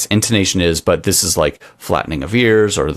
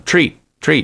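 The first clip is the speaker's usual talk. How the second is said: button voice; 8 semitones higher than usual. Retold or imitated. Imitating dog button voice.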